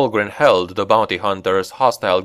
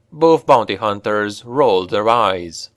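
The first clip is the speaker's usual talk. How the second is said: plain reading voice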